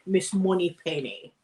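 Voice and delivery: slow, put-on Scottish accent; Sean Connery. Recalling Sean Connery's famous line, in put-on Scottish. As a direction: thicken the Scottish accent, drawn out. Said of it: "I'm putting on a Scottish accent".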